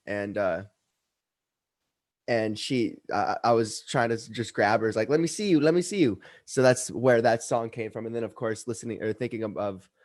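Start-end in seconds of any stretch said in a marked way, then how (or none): 5.1-6.2 lightly imitating coaxing a pet, pitched up; retold playful plea to a dog. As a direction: coax a dog in a higher voice. Retells coaxing his dog while grabbing her.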